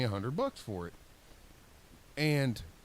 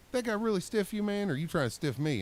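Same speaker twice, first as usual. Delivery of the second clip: tags 1; 7 semitones higher than usual. Retold or imitated. Boss accusing him of stiffing.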